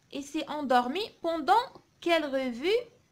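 slow, measured model reading; poem read aloud. Shown as a demonstration. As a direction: read it out slowly for pupils to follow. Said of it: "نقراو الشعر هذا مع بعضنا".

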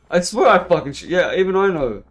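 angry player protesting; frustrated yell. Real, not acted. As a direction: blow up at the game. Frustrated outburst at game.

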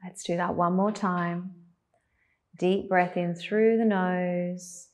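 guided meditation. Acted. Leads a breathing exercise.

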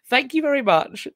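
giggling through the thank you; bubbly laughing gratitude. Real, not acted.

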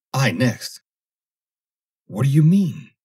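high, loud frightened yelp; panicking man cries out; alarmed protest. Acted. Foster alarmed at order.

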